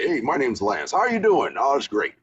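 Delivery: lightly voiced Lance, casual; a hint of Lance, easygoing; Lance impression. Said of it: "he sounded like this".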